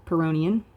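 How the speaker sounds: "Pyrrhonian" as puh-ROH-nee-un; alternative pronunciation. Shown as a demonstration. Lecturer offers another form of the term, "Pyrrhonian" as puh-ROH-nee-un. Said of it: "pronounced a couple of different ways".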